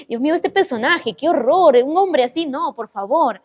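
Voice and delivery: lilting, exasperated dismay; mock horror. Storyteller recalls her reaction to the character, mock-horrified.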